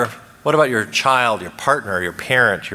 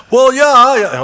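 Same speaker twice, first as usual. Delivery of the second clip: indignant retort; 14 semitones higher, 9 dB louder, slower than usual. Pretend. Accuser retorts to the therapist's validation.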